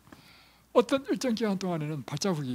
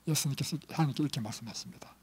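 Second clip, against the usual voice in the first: quiet whispered lead-in; hushed sermon aside; 3 semitones lower, 5 dB quieter than usual. Real, not acted. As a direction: lower into a whisper before the reveal.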